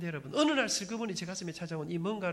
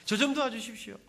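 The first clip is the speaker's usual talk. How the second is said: loud, raised cry to God, half sobbing; retold pleading prayer, louder and higher; tearful pleading prayer; 4 semitones higher, 7 dB louder than usual. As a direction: plead out loud like a desperate young man. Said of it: "울면서 하나님 앞에 기도 많이 했습니다".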